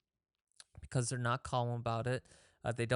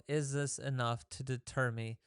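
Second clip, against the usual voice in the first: calm question. Retold or imitated. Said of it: "just calmly ask yourself".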